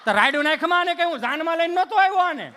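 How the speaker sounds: loud exasperated shout back at wife; husband yelling back at his wife. Retold or imitated. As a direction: bellow back, fed up.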